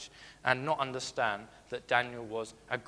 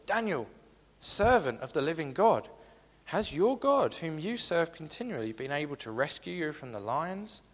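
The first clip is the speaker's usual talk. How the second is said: anguished call; 2 semitones higher than usual. Acted. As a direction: cry out to him in fear for his friend. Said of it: "in an anguished voice".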